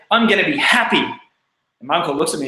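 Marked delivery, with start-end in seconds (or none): 0.1-1.0 a mild proud declaration; a touch of triumphant announcement; declaring. Retold or imitated. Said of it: "and I came and I declared".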